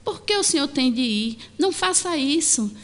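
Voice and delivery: a touch of anxious pleading, retold; mildly nervous pleading. Pedro begs his master not to go, mildly nervous. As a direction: plead lightly, as an imitated worried disciple. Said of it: "a falar com Jesus de forma".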